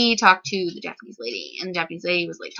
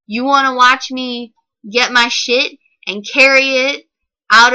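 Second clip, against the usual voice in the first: rising irritation that peaks in louder bursts; exasperated rant; 4 dB louder than usual. Acted. To the lady who kept watching her leave, exasperated. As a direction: vent at her as if she's still in front of you.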